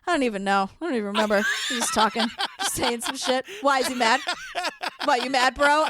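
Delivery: lightly voiced laid-back bro; clueless producer. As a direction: play a dim producer who doesn't care. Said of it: "the producer goes".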